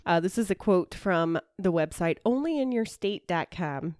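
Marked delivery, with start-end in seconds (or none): 2.2-4.0 slight Canadian lilt; a touch of Canadian accent; accidental Canadian accent. Real, not acted. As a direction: slip lightly into a Canadian accent. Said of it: "I don't know why I just went into that accent".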